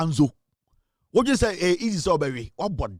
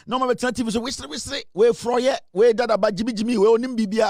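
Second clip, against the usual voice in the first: mocking high voice; 7 semitones higher than usual.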